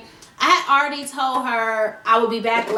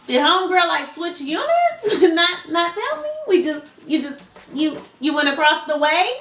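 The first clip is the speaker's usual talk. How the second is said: higher, incredulous questions; baffled questioning; 4 semitones higher than usual. Retold or imitated. Neighbor wondering where the missing friend went, baffled. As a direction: act out puzzled disbelief. Acted puzzlement at friend's disappearance.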